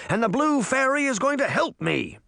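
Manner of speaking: high, insistent cry; mild shout. A narrator's reading. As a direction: call it out defiantly. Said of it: "Uncle Jake shouted".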